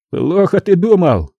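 high cutting retort; curt gangster. A narrator's reading. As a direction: snap him short. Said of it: "отрезал мой похититель". (резко, обрывая)

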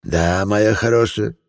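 lightly voiced cheerful old man; friendly old man. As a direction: gush like a sugary old gentleman. Old man replies slowly.

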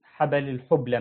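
الحبلى said "al-hubla", u after ح and silent vowel on ب; misreading demo. Shown as a demonstration. Teacher quoting how some people misread it, الحبلى mispronounced as hubla. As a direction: say الحبلى wrongly as hub-la instead of ha-ba-la. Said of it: "يقرأها غلط، يقول".

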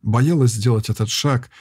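usual speaking voice

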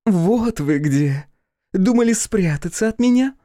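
put-on high, loud, slow drunken taunt; drunk daughter.

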